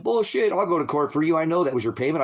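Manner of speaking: high, indignant bullshit; indignant outburst. Retold or imitated. Defending the cleaning lady to the cops, high indignant outburst. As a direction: reject the accusation outright. Defending her against theft charge.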